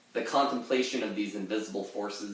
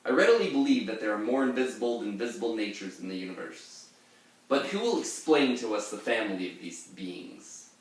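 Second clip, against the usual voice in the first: feminine robotic voice. Acted. Pirate reads Burnet's epigraph in his light, quick future robot voice. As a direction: play a dainty robot from the future reading aloud. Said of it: "future feminine robotic voice".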